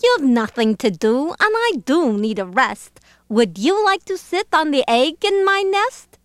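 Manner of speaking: lilting bird voice, rising high; coaxing lazy bird. Acted. Lazy bird asking Horton a favour, coaxing. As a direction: coax with a sweet upward swing.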